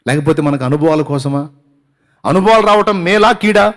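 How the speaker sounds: mounting pulpit questions; impassioned preaching. Acted. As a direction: press the congregation for an answer.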